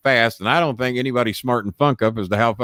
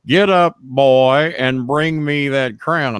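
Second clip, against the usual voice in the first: barked command; much slower than usual. Retold or imitated. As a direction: order him up like a heel. Funk's demand shouted.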